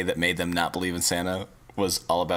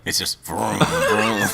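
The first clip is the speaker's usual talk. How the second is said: a mock English engine noise, getting louder; a posh English car going vroom, louder; English accent vroom; 2 semitones higher, 6 dB louder, much slower than usual. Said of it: "but in an English accent".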